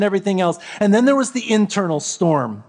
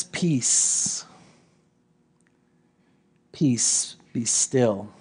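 soft, lower, breathy calm; calm command; 9 semitones lower, 6 dB quieter, much slower than usual. Acted. Jesus calming the storm for the disciples, soft and lower. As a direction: hush the storm gently. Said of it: "And he just says".

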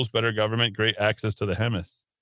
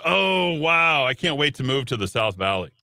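mock enthusiasm; 2 semitones higher than usual. Host mimicking someone eager to move to South Valley, mock enthusiasm. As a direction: pretend to be thrilled, tongue in cheek. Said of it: "does anybody, like, really saying".

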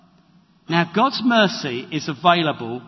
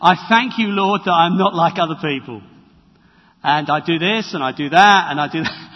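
smug Pharisee prayer; 2 semitones lower, 4 dB louder than usual. Acted. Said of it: "the Pharisee comes and says".

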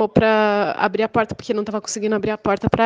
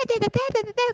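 blah-blah chatter; 12 semitones higher, 5 dB quieter than usual. Retold or imitated. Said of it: "Começou a falar um monte de coisa".

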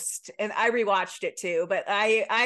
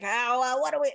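badly faked Boston accent, pitched up; attempted Boston accent; 3 semitones higher, faster than usual. Podcaster imitating the actress's natural speech, botched Boston accent. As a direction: have a failed go at Boston. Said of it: "I can't do accents".

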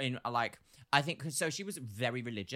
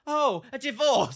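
slow, loud, high gasp of shock; mock surprise; 10 semitones higher, 10 dB louder, slower than usual. Cashier mock-shocked at a customer's divorce. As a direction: act stunned by the news. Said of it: "just be like".

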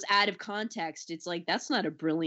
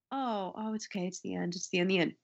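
softer, settling, relieved; mock relief at the film's end; relieved murmur; 6 dB quieter than usual. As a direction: sigh into the ending. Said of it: "my reaction was".

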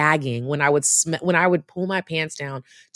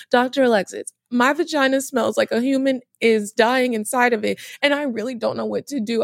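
panicked plea; 6 semitones higher than usual. Retold or imitated. Panicked retelling to doctor.

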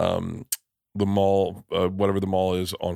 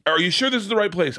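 much higher, man playing his mother; mom voice; 9 semitones higher than usual. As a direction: pitch up into mom's pushy tone. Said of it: "this is my impression of my mom".

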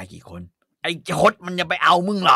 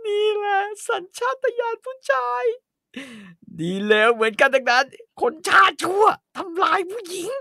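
through gritted teeth; 14 semitones higher than usual. Acted. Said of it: "แกกัดฟันพูด".

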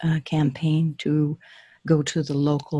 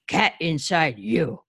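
slow, gloating ogre. Acted. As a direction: drag it out menacingly.

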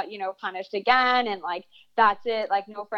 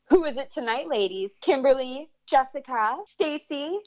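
mock calling-out, pitched a little higher; retold loud taunt; 5 semitones higher than usual. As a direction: tease them publicly, imitating a brother's loud taunt. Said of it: "in such a loud voice".

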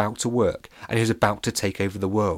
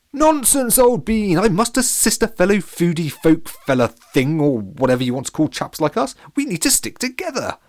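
very high, loud posh protest; insist, high and loud; indignant posh captain; 10 semitones higher, 6 dB louder than usual. Acted. Captain refuses pirate, high and indignant.

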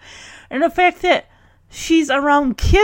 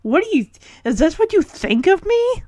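mock outrage; 4 semitones higher than usual. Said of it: "I'm surprised she's not, like, yelling".

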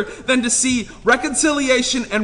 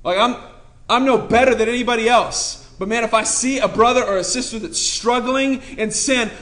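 ordinary talk

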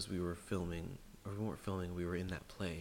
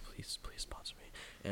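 whispered plea; 4 dB quieter, slower than usual. Pretend. Joking aside begging for sponsors.

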